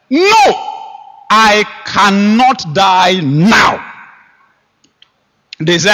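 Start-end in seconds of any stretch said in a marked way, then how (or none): 0.1-3.9 high no, then slow insistence; defiant declaration. Retold or imitated. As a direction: stretch it out with conviction.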